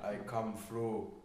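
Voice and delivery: low, slow attempt at German; German accent. Failed try for co-host, slow low German accent. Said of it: "No, I can't do German".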